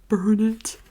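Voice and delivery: wife demanding he burn the story, loud; mock loud command. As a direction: bark the order like the angry wife. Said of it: "And she said".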